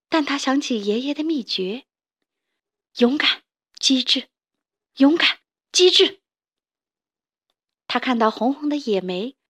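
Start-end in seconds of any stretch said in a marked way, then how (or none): 3.0-6.2 rallying cry. Acted. Little toad rallies himself.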